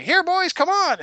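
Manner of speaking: high, loud rallying call; Bertram calling reinforcements. Retold or imitated. Bar owner calling his goons downstairs, rallying shout. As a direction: summon the gang from another floor. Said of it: "I had Bertram sort of call for his reinforcements".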